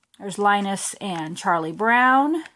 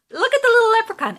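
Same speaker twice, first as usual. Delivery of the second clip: excited gushing; 13 semitones higher, 8 dB louder, much faster than usual. Real, not acted. Gushing over favorite minder.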